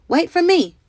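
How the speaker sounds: high, loud call after the men; crying out. A narrator's reading. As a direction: shout so they don't leave without you. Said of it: "she cried".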